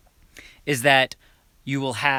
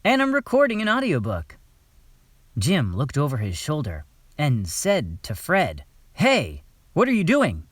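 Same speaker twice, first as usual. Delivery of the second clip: mock audiobook read. Shown as a demonstration. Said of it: "So I hit record".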